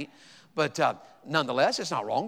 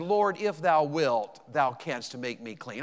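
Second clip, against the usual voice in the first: reverent slow plea; 3 dB louder, slower than usual. Shown as a demonstration. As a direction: let the old words linger gently. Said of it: "We'd say it like this".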